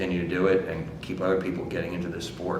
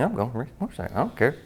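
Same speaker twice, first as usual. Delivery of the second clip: Muskie; 5 semitones higher, faster than usual. Retold or imitated. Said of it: "Muskie's kinda sitting there smiling".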